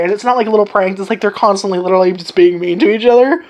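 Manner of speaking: usual speaking voice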